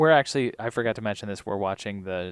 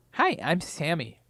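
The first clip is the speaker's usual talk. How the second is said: put-on lisping voice, higher pitch; 6 semitones higher than usual. Asked to do an impersonation, introduce yourself in a Sammy impersonation with a lisp. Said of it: "do a Sammy impersonation. ... Do I have a lisp?".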